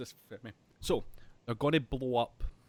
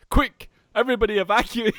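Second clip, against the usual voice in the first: mock calm order; 9 semitones higher, 14 dB louder than usual. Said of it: "Bison very calmly going".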